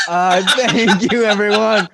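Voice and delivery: slow, loud thanks through laughter; cracking up while thanking the crowd; laughing thanks. Real, not acted.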